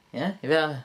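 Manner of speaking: ordinary delivery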